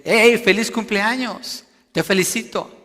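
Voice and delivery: loud, high emphatic congratulation; exclaimed greeting. Shown as a demonstration. Preacher showing the congregation how exclamation marks sound, exclaiming. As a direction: call out the birthday wish with exclamation marks. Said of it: "lo dice con signos de exclamación".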